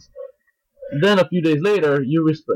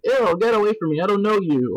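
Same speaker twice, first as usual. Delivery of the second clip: imitated brush-off, pitched up; mock disgusted rejection; 6 semitones higher than usual. Girl rebuffing his hello, mock disgust. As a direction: act out a girl recoiling from a pickup.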